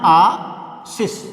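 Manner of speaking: आशीष said slowly, each sound drawn out; teacher demonstrating आशीष carefully; correct pronunciation. Shown as a demonstration. Teacher shows students correct आशीष, slow and clear. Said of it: "ये हमारा शुद्ध शब्द होता है".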